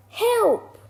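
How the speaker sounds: very high, loud swooping scream for help; panicked cry. A narrator's reading. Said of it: "the other one cried".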